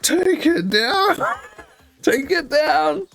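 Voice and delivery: high, slow insisting mum; stern mum. Retold or imitated. Mum insisting her son take it down, high slow order. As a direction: drag out each word like a final warning.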